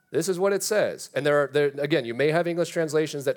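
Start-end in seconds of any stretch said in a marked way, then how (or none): 0.1-1.1 This is what it says, pitched higher and louder, pressing each word; preacher insisting that the Bible really says this, emphatic; emphatic insistence. Real, not acted. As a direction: land it hard so nobody argues with the verse. Insisting on the text.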